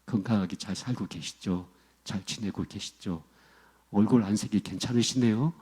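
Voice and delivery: soft, low polite small talk; acted kindly greeting. Preacher acting out greeting a disliked pastor face to face, kindly. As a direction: greet gently, as if nothing were wrong. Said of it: "그러면서 친절하게 하고".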